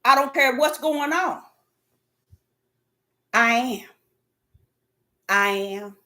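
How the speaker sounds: low, hushed and firm divine reply; voice of God. Retold or imitated. God answering the upset preacher in spirit, low and quiet. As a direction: quote God quietly, letting each "I am" drop low. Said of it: "He was in my spirit letting me know".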